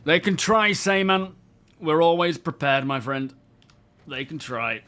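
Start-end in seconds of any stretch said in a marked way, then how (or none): 0.0-1.4 raised, higher, declaiming boldly; dramatic hero line. Pretend. Dramatic quoted line, then repeated. 1.8-3.3 louder, proud declaration; dramatic hero line. Pretend. Dramatic quoted line, then repeated.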